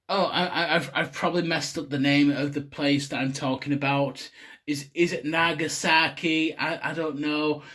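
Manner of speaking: half-hearted American accent impression; semi-American accent. Imitating YouTubers sorry for mispronouncing place names, in a loose American accent. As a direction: lightly mimic an American YouTuber apologising. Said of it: "a semi-impression of an American accent".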